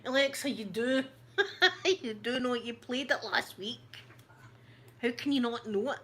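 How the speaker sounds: high laughing protest. Retold or imitated. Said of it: "And I'm going".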